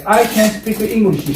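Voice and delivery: stretched out slowly so students can copy; slow pronunciation model. Shown as a demonstration. Teacher asks students to pronounce it, models slowly. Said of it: "발음해보세요".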